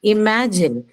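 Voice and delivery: Imagine stressed on the middle syllable MA. Shown as a demonstration. Teacher models Imagine for students, stressing MA. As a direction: lean on MA in Imagine, then fall. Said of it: "ma is the one that will take the stress".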